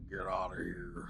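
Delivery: hushed, voiceless retold line; whisper. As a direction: whisper it like a movie quote. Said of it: "he was like".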